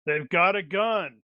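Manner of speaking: flat, bored, unbothered delivery. Pretend. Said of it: "in that really bored voice".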